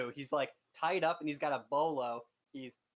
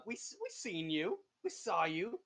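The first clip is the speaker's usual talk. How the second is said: 1 kobold voice; 4 semitones higher than usual. Acted. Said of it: "he tells you".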